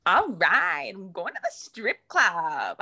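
Linda impression. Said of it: "Linda from Bob's Burgers".

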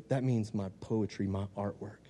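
slow, hushed and low; soft, measured revelation; gentle divine voice. Retold or imitated. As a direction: voice God softly, letting each phrase settle. God speaking gently, retold.

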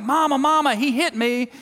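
put-on high, loud little boy tattling to mom; whining kid. Little boy calling his mom in a high voice. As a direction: squeal it like a kid telling on his brother. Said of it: "one of them's like".

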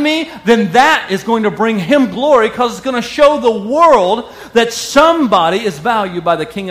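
full-force sermon delivery, driving each point home; forceful preaching. Real, not acted. Preacher urges the congregation to believe they are forgiven, forceful preaching. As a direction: preach it with urgent, insistent conviction.

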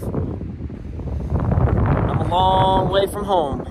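very slow, drawn-out words; slow wistful musing far from home. Real, not acted. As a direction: let it stretch out, savoring the distance. Reflecting on being far from Philly.

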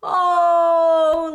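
high cackle into a loud, drawn-out "oh"; gleeful laugh from a villain. A narrator's reading. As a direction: laugh loudly at a puny threat. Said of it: "laughed Petroli from the sidelines".

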